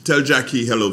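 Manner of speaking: high, loud greeting shout; yelling across the room. Real, not acted. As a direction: call it out to someone far away. Greets brother in another room.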